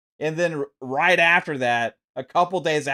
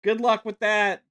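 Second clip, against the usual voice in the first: sarcastic refrain; 5 semitones higher than usual. Real, not acted. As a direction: toss it off with biting sarcasm. Sarcastic refrain against Sony.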